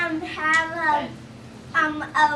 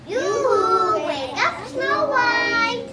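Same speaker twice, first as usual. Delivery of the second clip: sing-out wake-up call; 4 semitones higher than usual. Pretend. Dwarves calling to wake sleeping friend.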